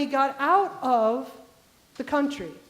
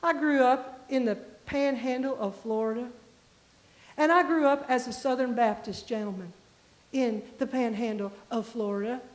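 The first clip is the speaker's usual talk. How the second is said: put-on deep Southern accent; 2 semitones lower than usual. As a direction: imitate a deliberate Southern gentleman's accent. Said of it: "he just starts talking with this very deep, articulated Southern accent".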